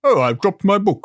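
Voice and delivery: a light, friendly ghost voice; mild dreamy mock James; soft echoing dream voice. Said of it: "That's my impression of you".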